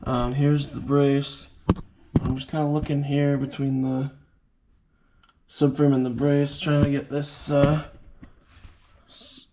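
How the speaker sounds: talking while lying under a car; strained voice from under the car. Real, not acted. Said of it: "I'm under the car here".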